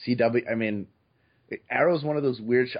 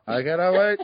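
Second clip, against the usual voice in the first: mock excited; 7 semitones higher, 5 dB louder than usual.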